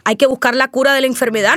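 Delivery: ordinary talk, nothing marked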